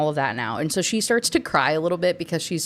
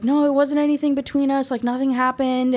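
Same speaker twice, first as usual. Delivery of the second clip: reassuring; 7 semitones higher, 3 dB louder than usual. Retold or imitated. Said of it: "trying to be reassuring".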